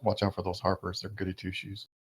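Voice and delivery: low-key aside, softening at the end; hushed mock whisper, still voiced; pretend whisper. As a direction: confide it quietly, as if whispering. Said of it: "I whisper to Gazelt".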